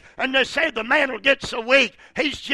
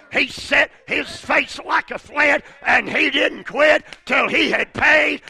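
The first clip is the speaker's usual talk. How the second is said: full-force preaching; 3 semitones higher than usual. Acted. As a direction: preach it out with rising fire.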